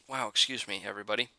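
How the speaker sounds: talking through hiccups; hiccuping. Real, not acted. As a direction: hiccup between the words. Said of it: "I'm hiccuping".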